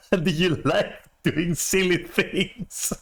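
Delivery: slow, high mocking voice, laughing through it; mock creepy line. Retelling the guy's cringe line to a friend, slow and mocking. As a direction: drag out the creepy pickup line in mockery. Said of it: "someone just told me".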